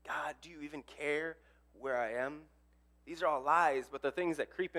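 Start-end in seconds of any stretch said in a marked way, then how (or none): 0.0-2.5 calling out, unanswered. Acted. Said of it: "calling out in an empty room".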